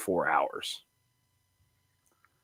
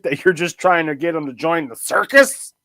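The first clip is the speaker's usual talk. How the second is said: incredulous reporter; 3 semitones higher than usual. Acted. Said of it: "You sounded so incredulous".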